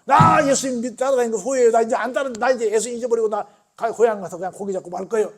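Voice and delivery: loud, high shouted regret; angry outburst. Retold or imitated. Peter telling Jesus he regrets following, loud angry outburst. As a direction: shout that you are quitting. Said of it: "나쁜 쪽으로 막 이렇게 해석을 해서".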